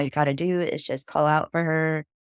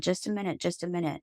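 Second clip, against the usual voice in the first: hushed aside; 2 semitones higher, 7 dB quieter, faster than usual. Retold or imitated. Craig speaking toward the light.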